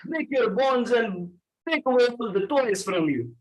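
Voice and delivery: playful threat in a Russian-Arabic accent; mock Russian accent. Shown as a demonstration. Trainer jokingly threatens class for not understanding, mock Russian accent. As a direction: menace them jokingly in a thick Russian accent.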